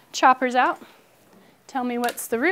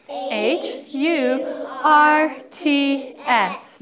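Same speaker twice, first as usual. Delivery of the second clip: letters drawn out one by one, loud; spelled slowly; 3 semitones higher, 4 dB louder, much slower than usual. Shown as a demonstration. Teacher modelling the spelling for students, slow and loud. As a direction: spell each letter slowly for the class to check. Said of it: "polka dot check, starting H".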